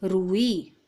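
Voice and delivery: रुई with a long, pressed ऊ; teacher drawing out the ऊ in रुई for the class; stressed long ऊ. Shown as a demonstration. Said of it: "अब ऊ की मात्रा हम जोर देकर बोल रहे हैं".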